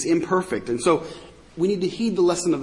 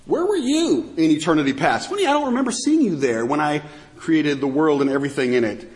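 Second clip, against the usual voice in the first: mock-puzzled taunt; biting sarcasm. God asks Job where he was at creation, sarcastic. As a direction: needle them with feigned puzzlement. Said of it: "ripping into them with this biting sarcasm".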